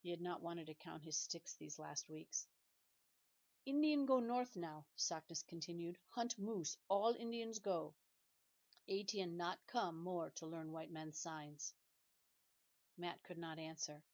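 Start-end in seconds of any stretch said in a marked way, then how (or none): 3.6-11.7 a hint of a grave old chief, slow in parts; measured, solemn elder speaking plainly; lightly voiced stern grandfather, slowly; lightly voiced old Indian elder. Old Sockness speaks broken English.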